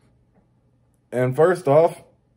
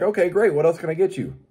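chipper cashier; 5 semitones higher than usual. Retold or imitated. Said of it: "I'm gonna be like".

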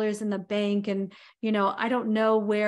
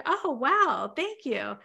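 polite thanks with no real joy behind it; husband half-heartedly thanking his wife; lukewarm thanks; 6 semitones higher than usual. Retold or imitated. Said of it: "he's like".

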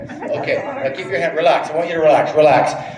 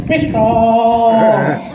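put-on strongman; 2 semitones higher, 8 dB louder than usual. Comedian voicing a volunteer showing muscles, mock strongman. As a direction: call it out for the dubbed strongman.

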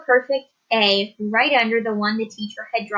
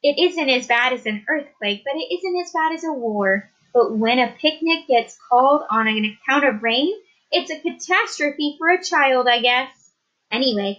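teacher voice. Acted. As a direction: weigh the answer like a teacher. Teacher voiced in read story.

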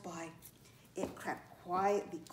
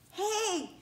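high, mildly raised call; storybook yell; 10 semitones higher, 3 dB louder than usual. A narrator's reading. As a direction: call out as a tiny bug yelling. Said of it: "it yelled at the top of its lungs".

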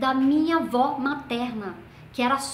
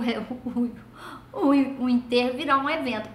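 ordinary talk, nothing marked

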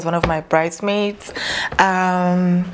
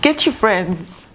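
laughing while talking; 4 semitones lower than usual. Real, not acted. Laughing while gushing over gifts.

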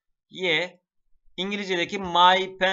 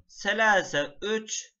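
slow model; 2 semitones higher, much slower than usual. Shown as a demonstration. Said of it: "teacher models number slowly".

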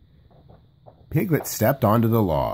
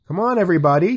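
calling out; 9 semitones higher, 4 dB louder, much faster than usual. A narrator's reading. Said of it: "Tigger called".

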